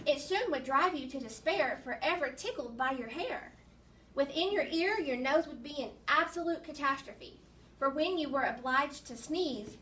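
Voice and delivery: put-on lilting poem reading for children; poem read-aloud. Teacher reads a funny nose poem to children, poem read-aloud. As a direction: read the rhymes out with a measured beat.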